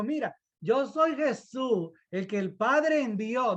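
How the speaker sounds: wrong version of Jesus. Shown as a demonstration. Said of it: "No, no, no, no".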